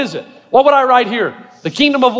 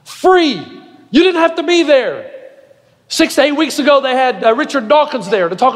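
raised-pitch, emphatic sermon delivery; impassioned preaching; 5 semitones higher than usual. Real, not acted. Pastor marvels at students seeking God, impassioned preaching. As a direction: drive each phrase home to the congregation.

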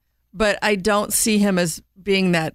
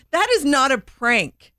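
slow, higher, firm declaration; emphatic correction; 5 semitones higher than usual. Real, not acted. Calling time out on the prank talk, emphatic correction. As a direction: lay it down slowly, word by word.

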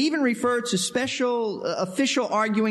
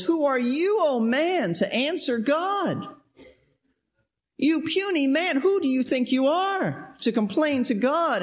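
higher-pitched, challenging rebuke; indignant rebuke; 7 semitones higher than usual. Acted. Paul rebuking puny man who answers God, indignant. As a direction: put the upstart in their place.

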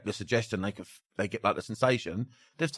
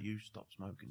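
soft embedded command; 17 dB quieter than usual. Shown as a demonstration. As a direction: slip the command in under your breath. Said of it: "on the whisper".

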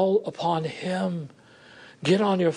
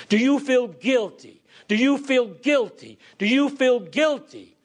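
accusing; 3 semitones lower than usual. Retold or imitated. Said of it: "the Lord Jesus doesn't come and say".

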